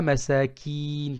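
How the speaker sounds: masakin said short; no stretch in masakin; short vowel. Shown as a demonstration. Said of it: "sans prolonger".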